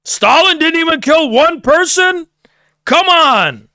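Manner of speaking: high, disbelieving mock protest; incredulous Lucas Gage. Podcaster mimicking a guest balking at a claim, high mock disbelief. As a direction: act shocked and pitch it way up. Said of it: "even Lucas Gage is like".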